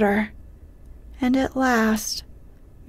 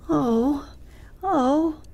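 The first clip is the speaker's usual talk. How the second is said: higher, drawn-out narrated groan; 5 semitones higher than usual. A narrator's reading. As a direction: groan each "oh" in mild dismay. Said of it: "groaned Miss Matilda".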